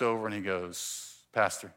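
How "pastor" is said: low, soft address; quiet elder. Retold or imitated. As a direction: imitate an elder gently approaching his pastor. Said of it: "is this quiet elder".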